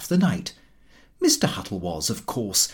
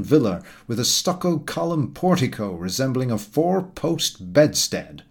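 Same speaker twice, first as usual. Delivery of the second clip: pompous Mister Huttle. Acted. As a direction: lecture the table like a self-satisfied know-all. Huttle holds forth at dinner.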